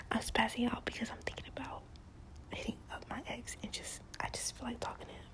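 secretive whisper, barely any voice; hushed confession to the camera. Real, not acted. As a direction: whisper it like a secret you're ashamed of. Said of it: "so I'm gonna whisper".

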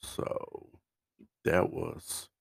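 mention it without any excitement, trailing into pauses; unexcited. Real, not acted. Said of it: "You don't sound excited".

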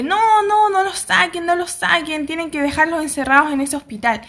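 a retold panicked cry of no, no; screaming warning. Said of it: "llega gritando y dice".

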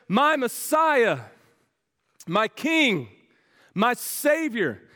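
slow, separated cries of devotion; retold calling out. Blind beggar hailing Jesus as Messiah, imitated calling out. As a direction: imitate a believer calling out, without shouting. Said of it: "This man's calling out, believing in faith".

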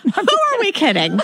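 laughing through the line, voice climbing high. Real, not acted. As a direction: giggle it out, can't keep a straight face. Laughing at the joke.

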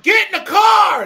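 high, loud, slow southern redneck holler; southern redneck accent. Retold or imitated. Pregnant southern redneck mama yelling at drunk men, loud southern accent. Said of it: "in, like, real southern redneck accent".

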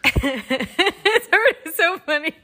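high, loud words through laughter; can barely get it out for laughing. Real, not acted. Host already amused before reading aloud, laughing.

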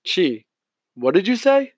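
sharp startled question. Acted. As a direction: caught off guard, rising sharply.

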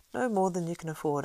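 a slow knowing smile in the voice. A narrator's reading. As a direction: smile through it, unhurried. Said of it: "with a slow smile".

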